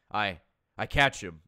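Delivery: put-on breathless old lady; panting old woman, slow; out of breath. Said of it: "she hasn't had any luck catching him".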